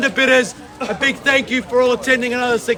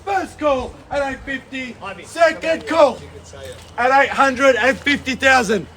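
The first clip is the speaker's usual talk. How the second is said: slow drawn-out final calls; auctioneer final calls; slower than usual. Real, not acted. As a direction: call it to the hammer. Final calls before hammer.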